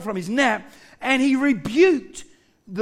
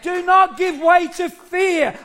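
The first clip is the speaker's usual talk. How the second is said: raised, higher emphatic urging; preaching exhortation; 4 semitones higher than usual. Real, not acted. Preacher urges church not to fear, exhorting. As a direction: exhort them firmly at an even pace.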